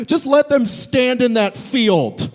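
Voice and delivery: slow, wheezing with laughter; laughing plea. Real, not acted. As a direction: barely get it out through laughter. Laughing through mock plea.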